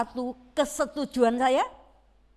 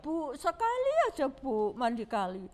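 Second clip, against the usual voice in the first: mock child whining for a bath in the river. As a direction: beg mom like a sick little kid. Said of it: "Ngerengek-ngerengek".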